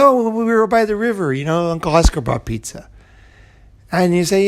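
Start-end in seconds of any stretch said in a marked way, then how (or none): 0.0-2.9 a hint of an eager child, higher; kid excited. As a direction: kid chiming in with a happy memory. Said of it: "He said".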